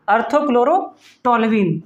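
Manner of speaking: "orthochlorotoluene" spelt out very slowly, syllable by syllable; slow drilled name. Shown as a demonstration. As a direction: stretch "orthochlorotoluene" so students catch every part. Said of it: "teacher drills the name".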